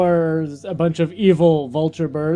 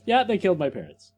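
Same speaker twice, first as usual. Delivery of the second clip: offhand; 6 dB quieter, faster than usual. Retold or imitated. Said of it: "an off comment of".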